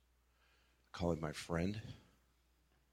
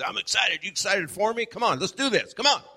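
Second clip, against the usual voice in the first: much higher and louder, pumped-up cheer; hamming up his usual eager self; mock excited hype; 13 semitones higher, 9 dB louder than usual. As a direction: come on, let's go energy.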